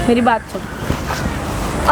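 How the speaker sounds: slow, hushed whisper; coaxing whisper. Acted. Woman whispers to her lover to pull him close.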